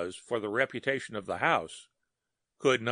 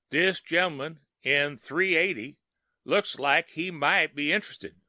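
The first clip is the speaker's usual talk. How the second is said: put-on lightly raised Southern dialect voice of a young elevator boy; gossiping Southern elevator boy, a bit higher; 5 semitones higher than usual. Elevator boy gossips to chief bellhop in Southern dialect.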